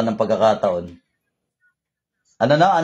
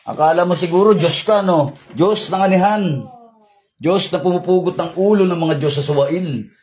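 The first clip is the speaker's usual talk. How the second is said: raised, commanding invocation; forceful exorcism; 2 semitones higher than usual. Real, not acted. Healer confronting an arrogant spirit, forceful invocation. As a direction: call down judgment on the offender.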